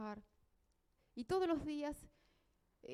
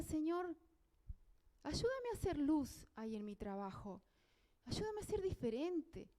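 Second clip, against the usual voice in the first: retold prayer; 3 semitones higher than usual. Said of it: "me arrodillé allí en mi cama y le decía".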